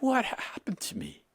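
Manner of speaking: high, breathy whispered question; bewildered whisper. Retold or imitated. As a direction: whisper it, lost and confused. Retold bewildered inner question.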